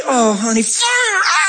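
rising into a high cry of fire; fiery shout. Acted. Preacher praying over a lady on the jetway, shouting.

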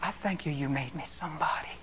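earnest, lightly hushed thanksgiving; heartfelt prayer. Acted. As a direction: pray tenderly, in your own voice. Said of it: "you lift your hands right where you're at and you say".

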